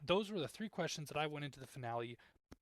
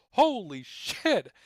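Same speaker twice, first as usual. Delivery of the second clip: high, loud, drawn-out yell; Hermit's loud drawn-out cry of alarm; shocked yell; 7 semitones higher, 11 dB louder, much slower than usual. Retold or imitated. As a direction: blurt it out in loud slow shock. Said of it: "Hermit's like".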